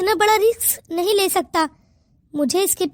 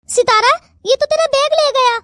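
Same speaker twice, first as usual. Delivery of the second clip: shocked cry; 6 semitones higher than usual. Acted. Friend after bag snatched.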